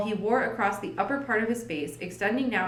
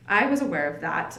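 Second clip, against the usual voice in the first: said dryly; 3 semitones lower than usual. Acted. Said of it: "said Holmes dryly".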